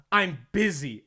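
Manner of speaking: loud, stern retort from an imitated kid; imitated stern dismissal; stern brush-off. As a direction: shut them down sternly, mimicking a child. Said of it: "It was so stern".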